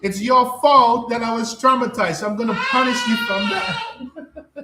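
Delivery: mocking narcissist voice. Mimicking a narcissist blaming listeners for his trauma, mock whiny and laughing. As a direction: parody the blamer with a laugh. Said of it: "this is what narcissists do".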